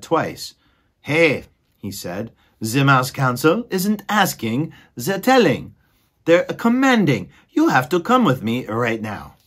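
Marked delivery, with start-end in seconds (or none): 1.0-1.4 higher, louder exasperated squeaky mouse voice; exasperated mouse brother. Acted. Furlow scolding his dreamy brother, exasperated and higher. 2.6-9.3 higher, louder exasperated squeaky mouse voice; exasperated mouse brother. Acted. Furlow scolding his dreamy brother, exasperated and higher.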